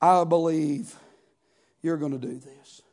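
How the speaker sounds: soft, low mock pious prayer; a hint of a showy prayer; lightly voiced pious prayer. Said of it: "bow my knee and say".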